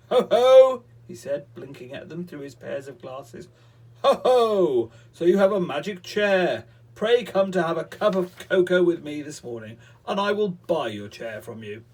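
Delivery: very loud, high wizard voice; booming wizard. Acted. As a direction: boom at the children like a greedy wizard. Wizard addresses the children.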